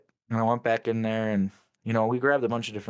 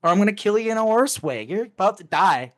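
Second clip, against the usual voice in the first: furious threat; 6 semitones higher, 5 dB louder than usual. Retold or imitated. To the guy he kills, raised furious threat. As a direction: threaten him, each word hammered. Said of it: "I'm like".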